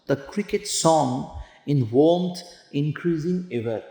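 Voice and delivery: slow, drawn-out recitation of verse; slow poetry reading. Shown as a demonstration. Teacher reading the poem to the class, slow and measured. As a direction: read the line slowly, savouring each word.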